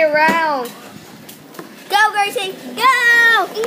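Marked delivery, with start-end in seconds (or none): 1.9-3.6 loud excited cheering. Real, not acted. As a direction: cheer her on loudly. Cheering sister on.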